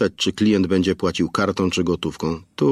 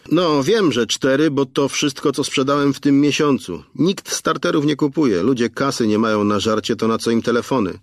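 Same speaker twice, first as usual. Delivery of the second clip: grumbling shopkeeper; 6 semitones higher than usual. A narrator's reading. Station owner explains to Aneta, high and grumbling. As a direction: complain about the customers.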